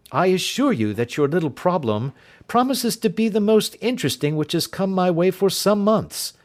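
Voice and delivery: the detective pressing his doubt; Holmes, uneasy. Acted. Holmes voiced, keen interest.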